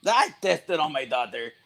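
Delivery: bad Russian accent. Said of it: "I do a terrible Russian accent".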